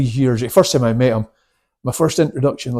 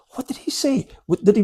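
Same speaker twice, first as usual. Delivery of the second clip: whispered question; 11 semitones higher than usual. Retold or imitated. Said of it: "I goes".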